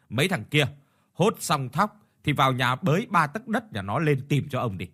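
furious landlord snapping at the debtors; hissing in anger. Acted. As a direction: landlord berating the poor farmer, angry hiss. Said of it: "Ông Chiến rít lên".

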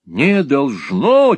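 loud, high, drawn-out outburst; almost squeal it in disbelief; high-pitched incredulous exclamation; near-shriek. A narrator's reading. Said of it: "чуть не взвизгнул Сквирс".

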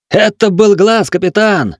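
high, loud, breathless panicked cry; choking with panic. A narrator's reading. Gunner reports the monster to the captain, breathless panic. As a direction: gasp the words out in terror. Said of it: "не унимался стрелок".

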